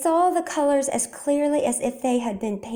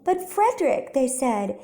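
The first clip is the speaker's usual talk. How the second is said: high, wondering praise; amazed mice; 7 semitones higher than usual. A narrator's reading. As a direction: marvel at him.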